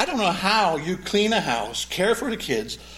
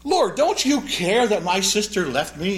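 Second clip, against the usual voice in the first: mild accusation; 3 semitones higher, 4 dB louder, slower than usual. Retold or imitated. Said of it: "She actually accuses the Lord mildly".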